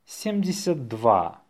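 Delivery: natural-speed dictation. Shown as a demonstration. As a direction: run the number together briskly.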